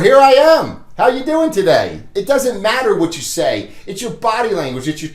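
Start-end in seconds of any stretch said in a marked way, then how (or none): 0.0-2.0 energetic greeting. Shown as a demonstration.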